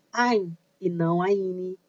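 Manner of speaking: "Ain" stressed, then "Aine" as the wrong form, said slowly; slow contrast of "Ain" and "Aine"; right versus wrong. Shown as a demonstration. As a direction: set "Ain" against "Aine" slowly and carefully. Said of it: "Repetindo mais uma vez".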